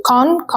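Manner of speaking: con said alone and punched; the syllable con, stressed; stressed first syllable. Shown as a demonstration. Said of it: "اللي هو السيلابل الأولاني".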